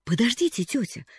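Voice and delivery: high, loud begging; pleading. A narrator's reading. Girl begging her aunt not to refuse, pleading. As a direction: plead urgently. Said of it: "взмолилась Полианна".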